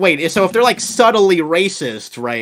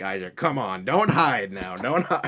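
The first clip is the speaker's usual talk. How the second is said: creepy coaxing; 7 semitones lower, 6 dB quieter than usual. Acted.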